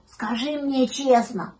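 slow, rising anxious question; anxious little pup; frightened puppy. A narrator's reading. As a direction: start hushed, build to a high worried plea. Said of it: "щенок ужасно испугался".

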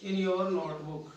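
very slow, drawn-out words with long gaps; slow dictation. Real, not acted. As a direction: dictate homework phrase by phrase. Dictating homework to write down.

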